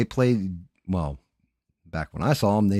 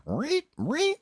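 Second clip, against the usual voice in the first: imitating bass riff. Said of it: "The bass is just ridiculous, and it's like".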